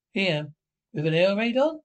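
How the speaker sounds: outraged, can't believe it; shocked. Acted. Shocked at being ordered out.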